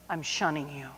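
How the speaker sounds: low, soft, laughing brush-off; teacher coolly snubbing the students who fooled her; mock shunning. Quiet laughing snub to the pranksters.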